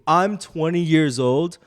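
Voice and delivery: imitating an emphatic, worked-up drunk kid; drunk fan. Drunk kid professing love for Joe Rogan to dad's friend, imitated emphatically. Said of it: "this drunk ass kid".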